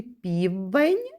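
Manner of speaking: В in "півень" held long; "півень" with a lengthened middle В; third sound singled out. Shown as a demonstration. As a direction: linger on the В inside "півень". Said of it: "Третій звук у слові".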